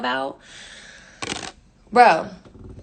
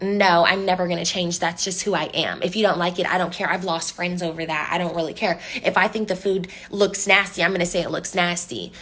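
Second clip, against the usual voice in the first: lower, dismissive mock refusal; retold stubborn indifference; 4 semitones lower than usual. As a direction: imitate an unbothered, stubborn friend, pitched lower.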